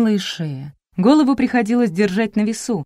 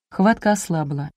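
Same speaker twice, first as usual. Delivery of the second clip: ordinary delivery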